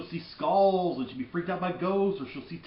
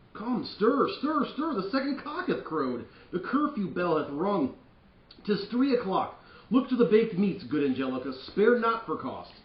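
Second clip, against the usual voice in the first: high, loud hurried host calling orders; bustling Lord Capulet; 6 semitones higher, 4 dB louder than usual. Acted. Father urging servants to hurry, loud and high. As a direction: rouse the kitchen like a fussing father.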